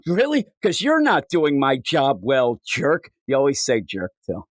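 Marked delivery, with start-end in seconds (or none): 0.0-3.1 mock the critic by echoing him; sarcastic comeback. Throwing the insult back.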